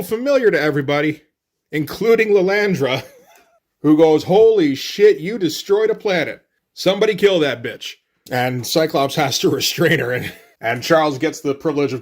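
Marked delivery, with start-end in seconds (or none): 4.2-8.0 higher mock-alarmed exclamation; shocked outburst. Lilandra sees the planet destroyer, shocked outburst.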